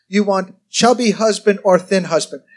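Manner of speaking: lightly imitated Korean-accented English; hint of a Korean preacher's accent; David Yonggi Cho. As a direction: ask in a mild mock Korean accent. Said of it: "I love his accent and the way he talks".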